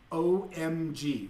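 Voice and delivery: mock texting speak. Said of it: "when somebody says out".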